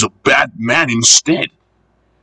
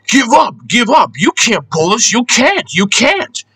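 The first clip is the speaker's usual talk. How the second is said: high, taunting truck voices; mock heckling from little trucks; calling out; 10 semitones higher than usual. A narrator's reading. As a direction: jeer it in a pitched-up storybook chant. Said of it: "called the trucks".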